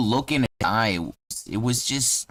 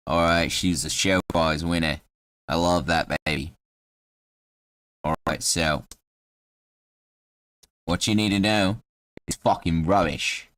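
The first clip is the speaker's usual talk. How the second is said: lower-pitched Cockney character voice; Cockney halfling; 4 semitones lower than usual. Acted. Halfling mourning his showcase cat, low Cockney voice. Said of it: "'cause he's Cockney".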